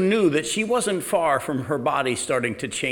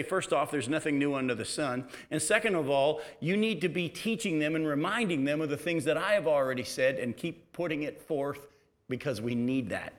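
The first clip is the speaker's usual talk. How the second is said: quiet voice of God; 7 dB quieter than usual. Retold or imitated. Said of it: "God began to wise me up and say".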